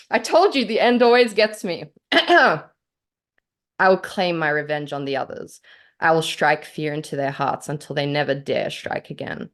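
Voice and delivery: measured dramatic reading of her own story. Acted. Author reads her story aloud.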